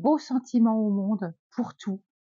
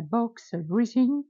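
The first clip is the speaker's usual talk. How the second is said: English accent; much slower than usual. Real, not acted. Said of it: "Désolée pour mon accent anglais".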